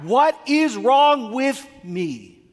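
a high, loud, slow "What is wrong with me?"; desperate cry. Retold or imitated. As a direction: cry out in mock despair over your own prayer life. Desperate cry inside a quote.

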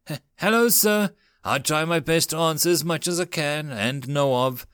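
stammered, high, nervous greeting; a mild touch of nerves, stumbling over hello; anxious stammer. Acted. Injured elf sailor greeting the captain, mildly anxious. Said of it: "The elf appeared to be anxious".

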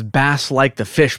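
"Bass" said with short A, like the fish; pronunciation from a local. Retold or imitated. Host passes on Aussie listener's tip, short-A "Bass". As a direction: rhyme "Bass" with "mass". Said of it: "Aussie Meemaw says".

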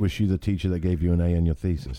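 teasing in mock British; playful British questioning; British accent. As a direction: needle a friend in a put-on British accent. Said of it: "we can only use British accents".

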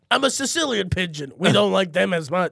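a hint of an old-country pigeon; Sicilian pigeon. Pigeon scorning outsiders, lightly voiced Sicilian pride.

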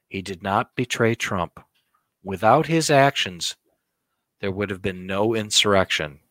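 slow, grave narrator read. Shown as a demonstration. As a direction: deliver it like a solemn documentary. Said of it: "my best narrator voice".

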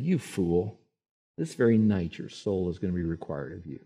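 low, soft, solemn rebuke; hushed voice of judgment; stern God's judgment. Retold or imitated. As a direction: pronounce the verdict gravely.

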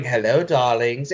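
a hint of a sultry hostess; lightly voiced vampy greeting; breathy vintage purr. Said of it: "Elvira to come out of nowhere and going".

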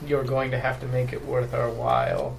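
put-on German accent. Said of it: "a German accent of some sort".

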